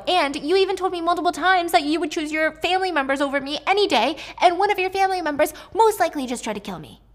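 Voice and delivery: Avery venting at Grayson; indignant outburst. Acted. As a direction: pitch up in disbelief.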